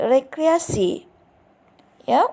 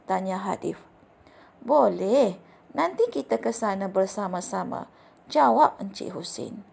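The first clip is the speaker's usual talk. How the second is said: expressive reading aloud. Shown as a demonstration. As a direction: read the story to the class with clear pronunciation and fitting intonation. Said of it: "kamu perlu mendengar cikgu membaca petikan ini". (bacaan contoh yang ekspresif dengan intonasi sesuai)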